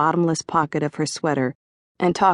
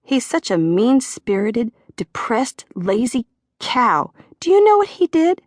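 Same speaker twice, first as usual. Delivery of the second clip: an eager gossip voiced higher, leaning in; chiming in; 7 semitones higher, 4 dB louder than usual. A narrator's reading. Phyllis cuts in to gossip about John, higher voiced. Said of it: "Phyllis chimed in".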